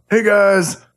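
a light take on a friend's hello; Austin impression. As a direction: open like a host. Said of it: "I always start it off".

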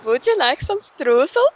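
high, singsong mock European accent; all-purpose fake accent. Shown as a demonstration. Offering streusel to the listeners, in an all-purpose fake accent. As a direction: offer it in a muddled foreign accent. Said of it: "What was that one, Italian?".

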